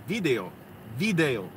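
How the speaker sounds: "video" said VEE-day-o, VI stressed; stress on first syllable. Shown as a demonstration. Showing how it reads online, VI stressed in "video". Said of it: "it has the accent over the I".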